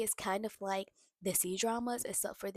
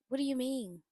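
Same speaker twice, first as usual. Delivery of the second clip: louder, higher, rising indignation; indignant outburst; 5 semitones higher, 9 dB louder than usual. Real, not acted. Vlogger scolding the mother on screen, indignant loud outburst. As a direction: demand an answer in disbelief. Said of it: "that whole conversation just irritated me".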